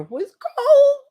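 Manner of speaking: slow, laughing through the words. Real, not acted. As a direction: laugh it out slowly. Cold water shock retold.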